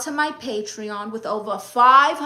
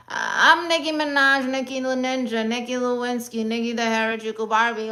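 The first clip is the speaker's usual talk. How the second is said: A rapper. Shown as a demonstration. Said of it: "Do a Nicki Minaj impression".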